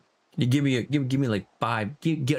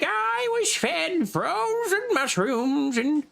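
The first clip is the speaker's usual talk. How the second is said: mopey quote; 8 semitones higher, slower than usual. Retold or imitated. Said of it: "He's like".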